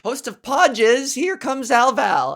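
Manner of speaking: a hint of a comedy club emcee; mock emcee intro. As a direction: hype her up like a club emcee. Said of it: "they go up and they're like".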